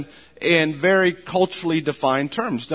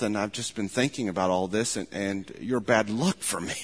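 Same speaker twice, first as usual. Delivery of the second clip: low dying voice; 6 semitones lower, 8 dB quieter than usual. Retold or imitated. A dying husband murmurs low to his wife. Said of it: "in a very low voice".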